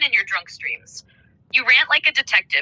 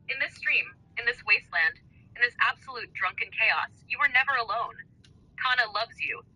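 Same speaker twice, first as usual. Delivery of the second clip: wrestling promo. Acted. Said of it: "wrestling style".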